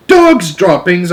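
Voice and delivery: loud, slow, high outraged cry; child shocked and outraged; cried out. A narrator's reading. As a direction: cry it out in disgust. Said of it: "I cried".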